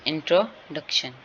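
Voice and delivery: इंट्रोडक्शन with a clear break after इंट्रो; split into syllables. Shown as a demonstration. Teacher repeating the example for students, इंट्रोडक्शन broken into parts. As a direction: pause inside इंट्रोडक्शन to separate its parts. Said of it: "इसके syllable जो हैं वो एक से ज़्यादा हैं".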